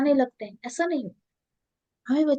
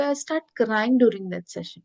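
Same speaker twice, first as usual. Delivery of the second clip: slow, moved; much slower than usual. Real, not acted. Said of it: "मैं इतनी भावुक हो गई".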